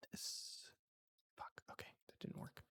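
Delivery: barely voiced whisper under the breath; near-silent, real self-talk; muttering to self. Real, not acted. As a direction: mutter very softly as you fiddle with the controls. Muttering to self over software trouble.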